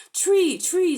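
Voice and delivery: high, loud cries of tree; crowd calling out. Acted. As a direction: animals shouting together. Dozen animals shout.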